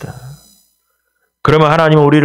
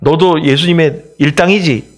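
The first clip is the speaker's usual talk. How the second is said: accusing bystander; 4 semitones higher, slower than usual. Retold or imitated. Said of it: "이렇게 말한 사람들".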